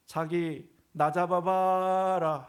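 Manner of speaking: high, loud, drawn-out flirty call; playfully hammed-up coy wife; cutesy Seoul wife. Pastor mimics a Seoul wife teasing her husband, drawn-out and cutesy. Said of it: "하고 뛰어가니까요".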